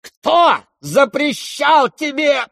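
very high, slow drawn-out yell; frenzied shout. Acted. Lizaveta screaming at the prince, frenzied. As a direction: scream the question at him. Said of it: "неистово крикнула".

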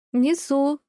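высоко и громко, звонкий отклик; крикни из коридора; откликаясь издалека. A narrator's reading. (громкий отклик из коридора)

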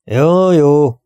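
put-on seventy-year-old butler giving in, grumbling. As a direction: grumble it off grudgingly. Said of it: "morogta a hetven éves Patrick".

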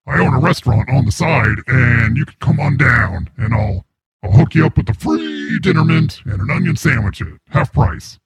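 voice changer voice. Acted. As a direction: voice run through a changer. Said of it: "It's just a voice changer".

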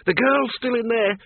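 put-on high, pressing old woman voice; urgent woman. Miss Flitworth argues with Bill, high and urgent. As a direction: press the danger on him.

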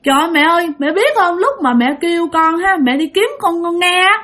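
lightly voiced sobbing toddler; crying child voice. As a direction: speak like a frightened three-year-old, near tears. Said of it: "nó khóc quá trời khóc luôn".

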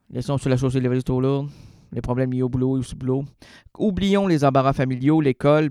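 brisk scripted host read; show host read. Acted. Host introducing his guest singer, brisk scripted read.

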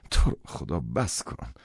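tired, slowed-down protest; weary plea. A narrator's reading. Son begs father to stop lecturing, wearily. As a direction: beg him to stop, worn out. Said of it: "با خستگی گفتم".

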